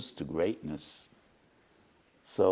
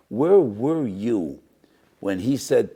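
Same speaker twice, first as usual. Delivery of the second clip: slow, grave divine questioning; a hint of the heavenly court questioning the students; heavenly rebuke; 3 semitones higher, 7 dB louder, slower than usual. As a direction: let each word land like a judgment. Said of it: "they were asked by HaKadosh Baruch Hu".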